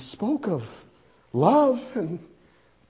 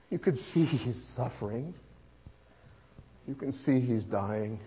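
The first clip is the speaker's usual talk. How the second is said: grieving; 5 semitones lower than usual. Acted. Disciple watching Jesus die.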